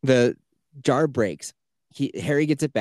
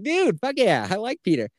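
much higher, delighted cheer; thrilled cheer; 11 semitones higher than usual. Retold or imitated. Gamer cheering Peter on in a much higher, thrilled voice. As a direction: squeal it like a fan who finally likes the hero. Retelling own thrilled reaction.

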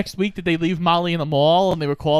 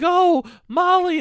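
high, slow hammed-up dad calling; drawn-out fake-tender wail of the name; mock father; 13 semitones higher, 3 dB louder, slower than usual. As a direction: parody of the movie father finding his lost daughter. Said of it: "he's like".

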